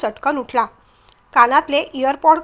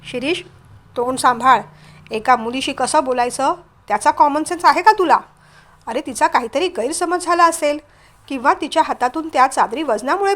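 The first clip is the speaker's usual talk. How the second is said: stern, mildly angry reprimand; understated scolding, firm to the end; flaring up. Acted. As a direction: rebuke him with controlled indignation. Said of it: "तेवढ्यात विश्वराज भडकले".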